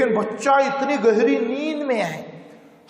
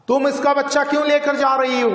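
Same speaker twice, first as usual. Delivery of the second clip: stern demand; 4 semitones higher, faster than usual. Acted. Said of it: "हवलदार ने पूछा".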